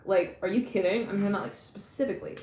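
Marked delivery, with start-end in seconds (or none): none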